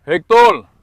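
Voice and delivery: loud call of the name, up high. Real, not acted. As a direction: shout his name across the yard. Calling the dog by name. (malakas na pagtawag)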